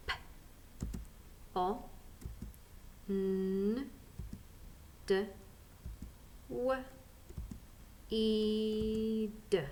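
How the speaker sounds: P, O, N, D, W, E, D as separate sounds, E held long; sounding out. Shown as a demonstration. Teacher takes the last word, sounding out each sound. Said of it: "let's sound out the last word here".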